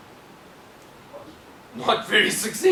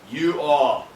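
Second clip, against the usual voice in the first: Les Brown voice; 4 semitones lower, 5 dB louder than usual. Retold or imitated. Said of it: "I'm gonna try and do it in his deep voice".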